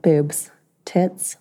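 breathy whispered word. Real, not acted. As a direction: whisper it like a secret.

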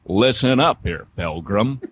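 lightly voiced cowboy drawl; John Wayne drawl. Playful cowboy warning the English, in a light Western drawl. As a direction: put on a little Western drawl. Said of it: "a little John Wayne drawl".

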